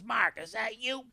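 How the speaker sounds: put-on high, loud, drawn-out old man's voice; imitated older Southern stranger; Bay. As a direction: call out slowly in surprised recognition. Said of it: "older black guy with kind of a bowler hat".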